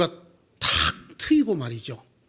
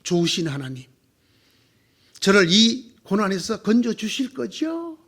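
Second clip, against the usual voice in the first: flattering prayer. Retold or imitated. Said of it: "아부를 하기로 한대요".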